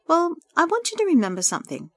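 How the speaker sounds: high, kindly urging. A narrator's reading. Jessica reassures her friend holding her hand, kindly. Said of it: "Jessica said kindly".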